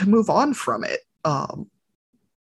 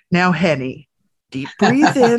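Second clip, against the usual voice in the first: put-on four-year-old coaching; 2 semitones higher than usual. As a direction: play the bossy little daughter guiding a breath. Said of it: "And she goes".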